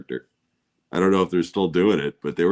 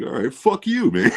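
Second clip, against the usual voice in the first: high, shouted comeback; mock angry retort; 5 semitones higher, 4 dB louder than usual. Speaker imagining his own comeback, mock anger. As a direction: shout it higher, in playful indignation.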